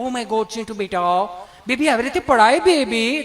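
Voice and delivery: a light flustered mommy voice; mock-panicked doting mother. Flustered mother fusses over her fallen baby, mildly mock-panicked. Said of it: "mummy બિચારી આંફળી ફાફળી".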